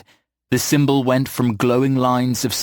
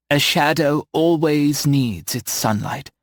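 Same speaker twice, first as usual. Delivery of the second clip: slow, playful wise woman voice; lightly voiced knowing witch; knowing old witch; 3 semitones higher, slower than usual. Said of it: "Eleanor said with a wink".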